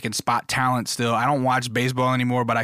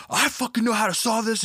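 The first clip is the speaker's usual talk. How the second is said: aggro guy; 10 semitones higher than usual. Retold or imitated. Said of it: "the aggro guy goes".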